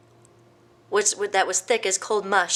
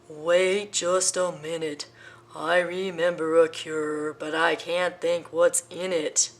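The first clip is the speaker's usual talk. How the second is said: slow, thoughtful elephant; pondering elephant; slower than usual. Acted. Elephant trying to recall a cure, slow. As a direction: muse it out slowly.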